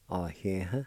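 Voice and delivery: Oh, yeah, huh said as one Cherokee word, ah-eh-huh; teacher sounding out Oh, yeah, huh; Cherokee pronunciation. Shown as a demonstration. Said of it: "It's pronounced like this".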